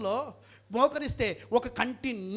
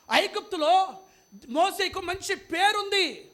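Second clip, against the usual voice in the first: raised, drawn-out preacher's cadence; forceful preaching; 6 semitones higher, 5 dB louder, slower than usual. Acted. Preacher listing Egypt's riches to the congregation, emphatic preaching. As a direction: hammer out each point slowly, pitch up.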